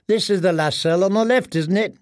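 put-on boy's voice. Boys arguing over the cell.

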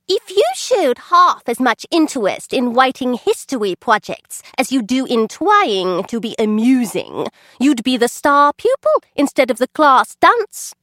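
high, weedy teacher trying to sound stern; thin reedy voice. Acted. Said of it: "had a weedy little voice".

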